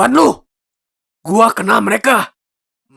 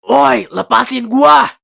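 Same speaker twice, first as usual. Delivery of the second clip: angry shout; 4 semitones higher, slower than usual. Acted. Captive yells to be freed.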